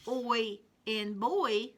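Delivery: put-on Oi in boy said slowly, oi drawn out; slow phonics drill. Shown as a demonstration. Teacher contrasting oi in boy for children. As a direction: show the oi sound clearly. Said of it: "Now let's look at these two".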